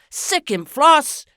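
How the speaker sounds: loud gleeful cheer; cheering on the dog. A narrator's reading. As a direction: urge the dog on with delight. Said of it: "applauded Missus Trumbull".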